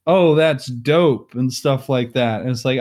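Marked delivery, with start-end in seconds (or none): 0.1-1.3 slow, lightly imitated casual slang; Duchess attempting slang. Duchess imitating casual Stacy, lightly mocked slang. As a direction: draw it out like a royal trying slang. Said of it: "the Duchess is more formal and Stacy is, like, casual".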